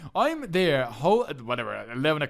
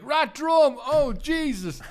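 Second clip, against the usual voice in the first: high, louder, laughing apology; driver realising mistake; 11 semitones higher, 5 dB louder, much slower than usual. Retold or imitated. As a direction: gasp then laugh sorry.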